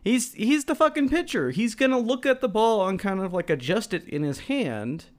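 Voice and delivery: incredulous rant. Real, not acted. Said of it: "ranting about the pitcher".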